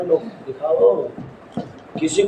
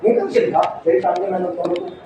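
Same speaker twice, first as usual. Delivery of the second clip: mock angry mother. Shown as a demonstration. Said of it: "बोल के दिखाना".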